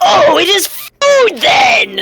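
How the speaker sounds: high, slow, gleeful shout in a hungry-brute voice.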